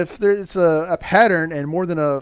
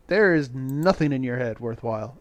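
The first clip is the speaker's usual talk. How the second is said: lower-pitched mock dismissal; dismissive creature; 6 semitones lower than usual. Reviewer voicing the creature rejecting Rasputin, low and dismissive. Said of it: "looks at him and goes".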